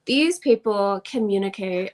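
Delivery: a slight Southern drawl on "communicate"; faint unplanned Southern drawl. Real, not acted. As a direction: let a touch of Southern drawl slip into "These people communicate". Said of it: "my Southern drawl just came out there a little bit".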